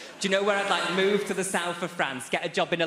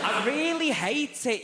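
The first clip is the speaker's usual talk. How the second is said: laughing confession; 9 semitones higher, slower than usual. Real, not acted. Confesses fear of flying.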